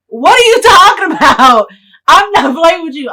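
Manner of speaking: high, loud, incredulous yell; shouting. Retold or imitated. He yells at the car thief who took his car, loud and high. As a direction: yell back that this is no game. Retelling a heated car standoff.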